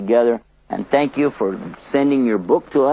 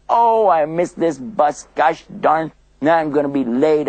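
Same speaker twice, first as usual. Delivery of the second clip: upset; 3 semitones higher than usual. Pretend. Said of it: "Sometimes people get upset".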